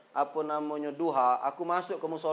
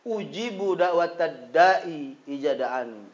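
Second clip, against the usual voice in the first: slow recitation; 3 dB louder, much slower than usual. Acted. Verse line repeated slowly.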